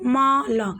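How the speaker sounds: म, ल each said as a separate clear syllable; teacher sounds out म and ल one by one; sounding out letters. Shown as a demonstration. Teacher shows students the letters, each one spaced out. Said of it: "देखो क".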